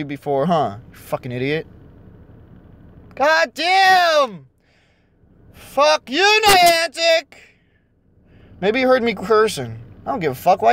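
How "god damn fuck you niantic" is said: high-pitched angry yelling; furious outburst. Real, not acted. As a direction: curse the company at the top of the voice. Cursing the game company.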